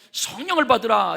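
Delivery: as if breathing the Spirit out with "받으라"; breathed out. Shown as a demonstration. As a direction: blow "성령을" out on the exhale. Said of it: "이렇게 하면 됐지".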